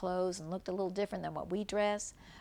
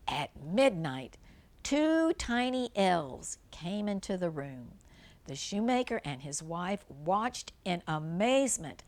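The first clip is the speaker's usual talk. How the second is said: gentle storybook read-aloud; reading a fairy tale to young children; story narration. Acted. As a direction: read it like a bedtime tale for kids.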